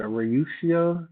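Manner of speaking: mock mispronunciation of Russia; mispronounced Russia. Shown as a demonstration. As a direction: say Rayushia as ray-YOU-shia on purpose. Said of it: "that's not Russia".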